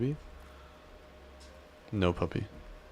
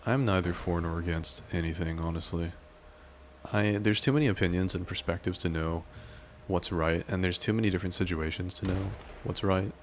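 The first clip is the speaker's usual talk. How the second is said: put-on southern cowboy accent. Streamer reading a viewer's careful opinion, lightly Southern cowboy accent. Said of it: "reading everything you say in a southern cowboy-esque accent".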